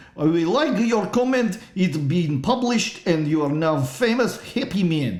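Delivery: put-on Russian accent, dropped articles. Greeting a listener who left a comment, in a put-on Russian voice. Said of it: "Russian voice".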